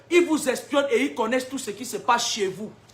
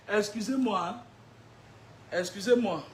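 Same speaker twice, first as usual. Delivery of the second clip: soft laughing excuse-me; laughing apology; 6 semitones lower, 10 dB quieter than usual. Real, not acted. Preacher apologizes to the congregation for laughing, soft laugh. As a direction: laugh it off gently.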